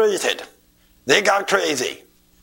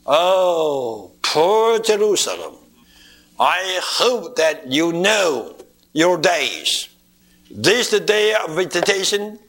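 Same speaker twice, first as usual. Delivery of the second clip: lamenting. Retold or imitated. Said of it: "He lamented over Jerusalem".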